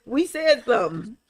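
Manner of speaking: playful copy, stressing "Something"; imitated emphasis on Something. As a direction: echo the host's stress on "Something". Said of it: "I like the way y'all say it".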